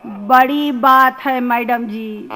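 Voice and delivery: rustic student's lament in rhythmic verse; comic poem recital. Acted. Student confessing his English troubles to madam, comic poem recital. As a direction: lilt through the dialect lines, lifting the repeats.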